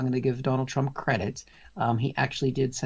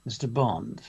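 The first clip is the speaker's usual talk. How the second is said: low, softer mock villain menace; Bond villain; 5 semitones lower, 5 dB quieter, slower than usual. Comic recasting a politician's remark as villain talk, quietly menacing. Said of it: "I'd like to think it's more of a".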